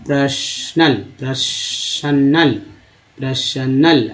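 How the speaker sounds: पर्सनल drawn out syllable by syllable; पर्सनल stretched for the class; slow syllable drill. Shown as a demonstration. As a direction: break पर्सनल into per-so-nal. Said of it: "एल को अल बोलते हैं".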